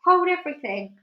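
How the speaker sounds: high loud urgent order; urgent command. Acted. Aunt stopping everything at the tree, urgent high call. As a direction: freeze everyone with it. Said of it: "and quickly".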